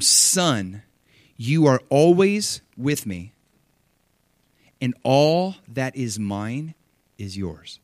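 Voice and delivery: slow, gentle father reassuring his son; tender father. Acted. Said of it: "tender father's words".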